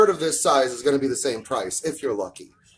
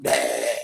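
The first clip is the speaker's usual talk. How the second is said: tongue-out bleh; 5 semitones lower than usual. Real, not acted. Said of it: "That was obnoxious even for me".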